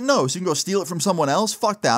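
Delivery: retold angry refusal. Angry refusal of thief's offer.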